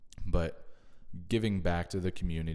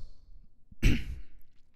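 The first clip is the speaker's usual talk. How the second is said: throat clearing. Real, not acted. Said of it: "Excuse that voice crack there".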